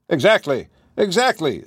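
quick interjection, lifting high on the repeat; eager confirmation. Acted. Holmes confirming the woman's account, eager interjection. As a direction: jump in keenly as the detective.

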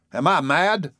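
loud, high, outraged question; thundering rage. A narrator's reading. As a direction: thunder it in disbelief. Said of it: "thundered Mister Button".

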